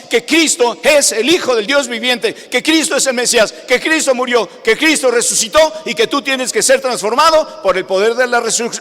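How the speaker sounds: insistent, building list of declarations; emphatic preaching. Real, not acted. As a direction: drive each clause home with firm stress. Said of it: "yo quiero hacerles énfasis".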